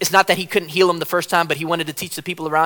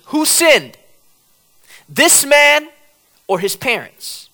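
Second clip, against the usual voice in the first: disciples asking; 8 semitones higher, 3 dB louder, slower than usual. Retold or imitated. Disciples asking Jesus, acted.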